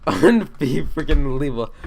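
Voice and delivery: laughing through the word in disbelief. Real, not acted. Car Cat laughing at the memo. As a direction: burst out laughing mid-word. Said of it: "I can't stop laughing".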